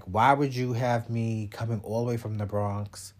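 whispered mock complaint of the upset guy; hushed imitation of the guy from the Bronx; mock whining ex. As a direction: mimic his hurt whine under your breath. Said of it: "he was so upset".

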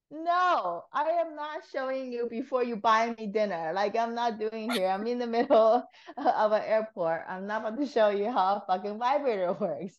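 high, giggly mock outrage; laughing refusal. Telling a friend how she refused the guard, laughing. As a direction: refuse through laughter, half joking. Retold refusal in the airport, amused.

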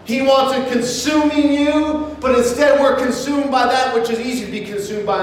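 projected, measured sermon delivery; preaching. Real, not acted. Preacher urging the congregation toward a life of joy, preaching. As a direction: preach it out firmly, stretching key words.

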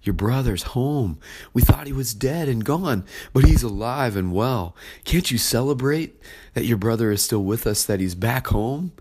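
a father coaxing his son in, pleading. Acted. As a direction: beg him gently to come inside. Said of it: "the father comes out and pleads with him".

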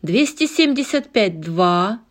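auctioneer calling bids. Acted. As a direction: chant the bids aloud. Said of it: "кричал аукционист".

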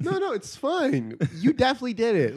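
lightly mock a too-polite Canadian detective; mock Canadian interrogator. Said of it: "the way they talk".

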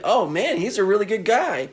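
hammed-up sneering killer; Otis mocking. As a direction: fake sympathy, rising up. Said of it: "He's like".

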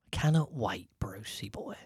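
hushed, excited aside; whisper. Real, not acted. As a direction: whisper it to a pal. Sudden whispered aside to Bruce.

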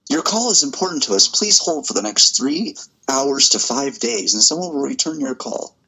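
phone menu voice. Pretend. Mimicking a phone hold message.

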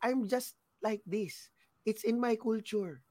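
a hint of the coworker insisting he isn't angry; Lebanese friend's reply. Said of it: "Tas sasabihin niya".

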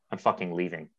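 imitating a friend's low-volume exit line; soft-spoken announcement. Soft-spoken friend walking out after a pool fight, understated. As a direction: retell it softly and understated. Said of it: "quite soft-spoken, friendly friend Grant".

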